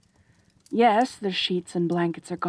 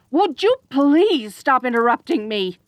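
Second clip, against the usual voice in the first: exasperated plea; 5 semitones higher, 4 dB louder than usual. Acted. Cuts off the listener's interruptions.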